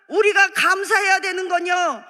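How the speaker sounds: ordinary talk, nothing marked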